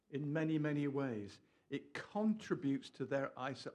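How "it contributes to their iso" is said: "contributes" picked out with emphasis; emphatic CONTRIBUTES. Real, not acted. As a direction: stress on "contributes". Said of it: "I don't know why I'm emphasizing this".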